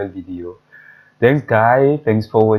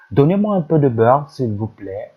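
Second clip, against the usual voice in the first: Donnez-moi un peu de beurre, raised and louder, as if asking; polite request; 4 semitones higher, 4 dB louder than usual. Shown as a demonstration. Teacher acting a customer asking for butter. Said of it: "Du beurre".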